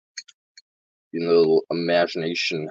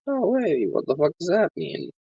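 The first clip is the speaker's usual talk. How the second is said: much higher mock passerby, puzzled; imitating confused passerby; 11 semitones higher than usual. Imagined passerby puzzling at his protest sign, high mock voice. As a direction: play a bewildered stranger reading his sign, pitched way up. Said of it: "come up to me and be like".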